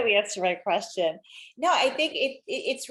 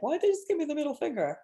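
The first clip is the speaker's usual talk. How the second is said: higher, baffled question; puzzled driver asking, pitched up; mock confusion; 7 semitones higher, faster than usual. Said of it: "You're like".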